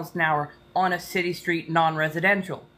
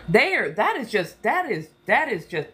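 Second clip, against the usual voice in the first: sputtering Southern; 3 semitones higher than usual. Real, not acted. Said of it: "I can feel the Southern starting to come out".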